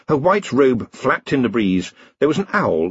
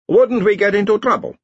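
high, louder anxious villager; worried villager; 11 semitones higher, 4 dB louder than usual. A narrator's reading. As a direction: fret about getting in trouble.

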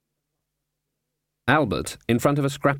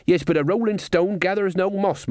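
character voice; 9 semitones higher than usual. A narrator's reading. Character voice, Crash.

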